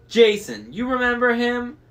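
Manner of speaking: very high, loud crone voice; bragging hag. A narrator's reading. Old sister asking her sister about Jason. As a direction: crow it like a giddy witch.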